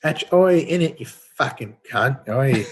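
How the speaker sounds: jokey, hammed-up British-Australian cockney accent, shouted "oi"; mock British accent. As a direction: tease British and Australian listeners with a crude cockney accent, laughing. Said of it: "they all complain that I do the wrong accent".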